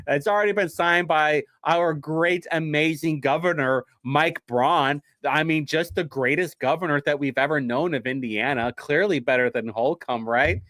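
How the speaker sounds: mock-admiring, lightly sarcastic praise of the governor; sarcastic praise for the new governor, mildly overdone. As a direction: gush over him but don't mean a word of it. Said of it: "can you hear the sarcasm in my voice right now?".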